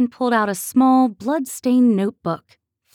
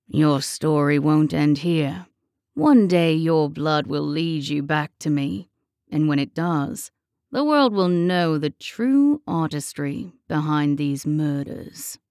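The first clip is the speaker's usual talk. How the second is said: haunting whisper; 4 semitones lower than usual. A narrator's reading. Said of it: "leaned down and whispered into her ear".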